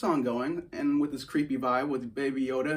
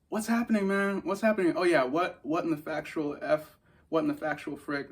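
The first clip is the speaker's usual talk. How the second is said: pitched up, bewildered disbelief; what in the world is this; high incredulous outcry; 3 semitones higher than usual. Retold or imitated. Viewer reacting to the show, high bewildered disbelief.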